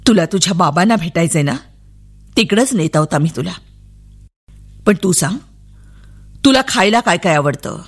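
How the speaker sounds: low, gentle coaxing voice; a policeman gently winning a child's trust; kind policeman. Acted. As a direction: coax a little girl kindly.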